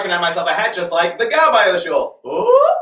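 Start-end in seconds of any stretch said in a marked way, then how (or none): 2.3-2.7 high delighted squeal of ooh; a sudden squeal of delight. Acted. Comic showman admiring his hat, high squealed ooh.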